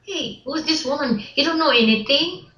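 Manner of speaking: high, sneering mock of the gossiping crew; mocking jealous coworkers. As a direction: mimic them jeering at her accent, with a laugh at the end.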